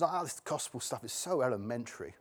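mock posh long-standing Christian. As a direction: put on a posh voice, bored by the basics. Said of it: "why do I do that in a posh voice?".

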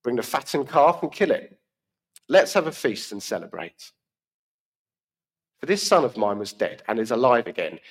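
measured Bible reading to the congregation; scripture reading. Acted. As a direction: read the parable out clearly. Reading the parable aloud.

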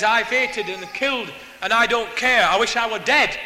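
loud, emphatic imitation of bitter despair; retold despairing outburst. Lifer telling the preacher he doesn't care, acted bitter outburst. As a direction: act out his outburst, hitting the last words.

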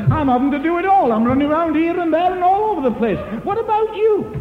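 a rising complaint to God; complaining to God. Retold or imitated. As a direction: fret at God until it bursts. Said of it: "We say to the Lord".

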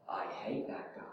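a hushed, secret whisper; whispered thought from the heart. Retold or imitated. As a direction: whisper it like a guilty confession.

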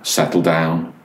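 lightly voiced calm dad, a little low. Dad steadying himself as the boy screams, in a low, restrained voice. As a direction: keep it low and controlled, imitating a patient dad. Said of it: "In a very low voice".

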